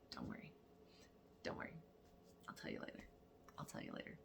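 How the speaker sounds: soft whispered reassurance; hushed whisper. Retold or imitated. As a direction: keep it secret, whisper it. Hushed aside to daughter.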